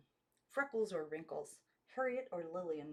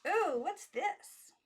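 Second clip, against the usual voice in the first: much higher, louder, very slow ooh; high girlish amazement; awed girls; 13 semitones higher, 9 dB louder, much slower than usual. A narrator's reading. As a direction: stretch the ooh in childlike wonder. Girls see the keys.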